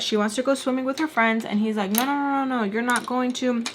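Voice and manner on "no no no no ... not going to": raised-pitch scolding mimicry; acted parental no; retold firm refusal. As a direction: pile up the refusals like a fed-up parent. Mister Peach refusing, retold.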